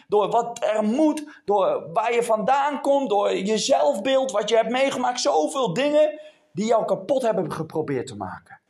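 insistent, driving sermon delivery; emphatic preacher addressing a congregation; impassioned preaching. Real, not acted. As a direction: pile up the points with force.

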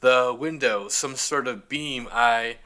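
slow, drifting sci-fi crewman; dazed alien crewman. Retold or imitated. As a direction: sound like you're losing focus. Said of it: "Other cat goes".

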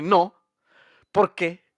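más aguda y fuerte, regañando; Hermione indignada. Retold or imitated. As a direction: reclamo escandalizado. (Hermione regaña a Harry, aguda e indignada)

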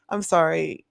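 slow whispered sorry through laughter; whispered laughing apology. Real, not acted. Apologizing to friend while laughing, whispered.

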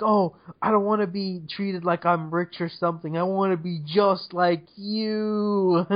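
mocking imitation. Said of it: "but she's like".

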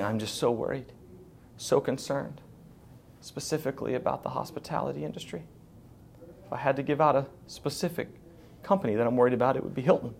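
mock sob-story voice; mock tearful worry. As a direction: fake tearful concern for the hotel workers. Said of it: "almost crying, almost in tears".

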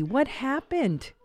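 high, slow, drawn-out question; concerned teacher. Retold or imitated. Teacher checking on two arguing children, concerned. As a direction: imitate a teacher's attentive concern. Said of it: "she was so concerned".

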